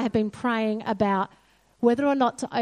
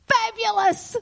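high, sudden burst of delight; delighted exclamation; 11 semitones higher than usual. Real, not acted. Preacher celebrating what God told her, delighted exclamation. Cheering God's empowering statement.

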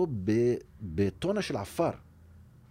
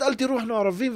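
retold shout; 14 semitones higher, 5 dB louder, faster than usual. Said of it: "אני צועק להם בערבית".

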